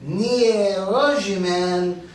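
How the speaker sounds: slow, stretched Polish phrase. Shown as a demonstration. Grandson explains the family name's origin, in slow Polish. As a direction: say "Nie rozumiem" slowly in Polish. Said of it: "In Polish".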